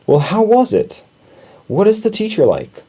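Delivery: high-pitched, eager mother mouse; eager questioning. A narrator's reading. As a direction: ask keenly, pitched well up. Mother questions son after school.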